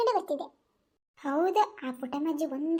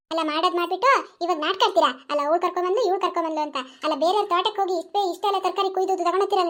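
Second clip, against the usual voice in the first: put-on angry old granny scolding; 5 dB louder than usual. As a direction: tear into them.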